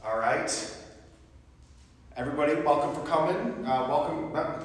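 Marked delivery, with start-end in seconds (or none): 2.2-4.6 fast, tripping over the words; rushed fumbled welcome. Real, not acted. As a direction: rush the welcome and stumble. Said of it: "so let's try that again".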